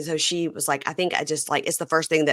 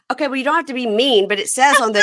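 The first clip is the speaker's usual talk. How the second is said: quick, higher, mock-offended comeback; retold protest; 7 semitones higher, 4 dB louder than usual. Retelling her reply to a dismissive friend, protesting. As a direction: protest as if replaying a squabble.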